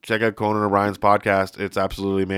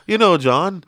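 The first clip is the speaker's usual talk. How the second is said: put-on high Liverpool accent, a bit louder; impression of a singer; 8 semitones higher, 4 dB louder, slower than usual. A singer addresses John in Liverpool accent. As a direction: lilt it like a singer talking to John. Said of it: "he goes".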